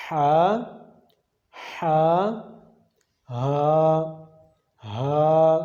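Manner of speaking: ہا throat then ہا chest, contrasted; practice drill. Shown as a demonstration. Teacher drilling two similar letters. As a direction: alternate the two ہا sounds. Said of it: "اب ان دونوں کی practice کرتے ہیں".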